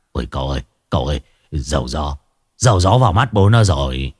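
crying out in burning pain; pained wail. A narrator's reading. Hải Nghẹo cries to master as oil burns his eyes, wailing.

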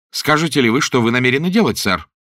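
требовательно, выше и громче; потребовать ответа в гневе; дрожа от гнева. A narrator's reading. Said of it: "дрожа от гнева". (в гневе, требовательно)

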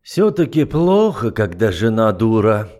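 slow, exasperated sigh of a line; tired contempt; weary sigh. Acted. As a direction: sigh at a foolish wife. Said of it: "вздохнул герцог".

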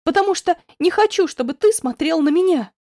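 loud and high, pleading; desperate outburst. Acted. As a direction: push him away with your voice. Outburst continues.

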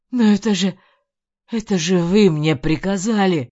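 loud, panicked objection; desperate protest. A narrator's reading.

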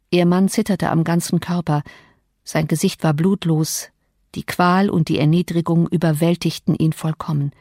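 ordinary delivery

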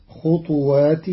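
"خطوات" as khut-waat, ta silent with qalqala bounce; خطوات with sukun on ta. Shown as a demonstration. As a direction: bounce the ta in "خطوات", no vowel after it. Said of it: "بإسكان الطاء مقلقلة". ("خطوات" بإسكان الطاء مع القلقلة)

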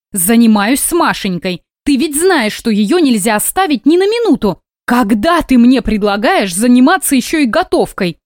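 a touch of tearful tremble; trembling voice. Acted. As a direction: plead with a hint of tremble. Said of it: "Голос женщины задрожал".

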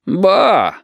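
high, loud exclamation; mock surprise. Shut exclaims at Dima in hammed-up surprise. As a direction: act astonished. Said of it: "воскликнул Шут".

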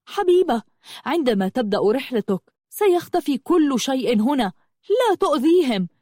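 high-pitched, pressing plea; urgent appeal. Acted. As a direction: urge before others get hurt. Brother urgently pleads amid attack. (مناشدة ملحة بنبرة مرتفعة)

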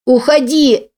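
put-on high, loud child's scream. A narrator's reading. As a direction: shriek it at the mother. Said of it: "вопила она".

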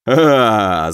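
drawn-out acted laugh; loud battle guffaw on one long breath; hearty guffaw. A narrator's reading. Fighter amused in the heat of battle, guffaw. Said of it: "захохотал Илья".

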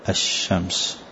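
الشمس said ashshams, lam not sounded; silent lam in al-shams. Shown as a demonstration. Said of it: "لأنها تكتب ولا تنطق".

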